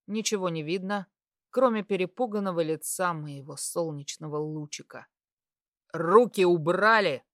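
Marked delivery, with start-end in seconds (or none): 5.9-7.2 growled. Acted. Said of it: "рыкнул я".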